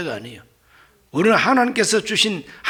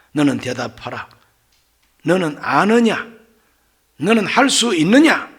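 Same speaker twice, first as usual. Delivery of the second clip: mildly commanding, each question stronger; acted interrogation; 5 dB louder than usual. God demands answers from Job, in building interrogation. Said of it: "이걸 자꾸 하나님께서 묻습니다".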